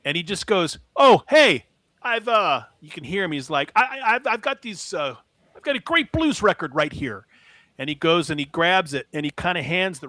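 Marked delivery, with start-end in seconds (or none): 1.0-2.6 higher-pitched, flustered imitation of a jittery seller; mock nervous stammer, pitched up; nervous vendor. Nervous vendor greets a customer at his booth, imitated jittery. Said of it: "he was very nervous". 3.7-7.3 imitated nervous stammer, pitched up; nervous vendor. Nervous vendor offers a customer a blues record, imitated stammering. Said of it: "he was very nervous".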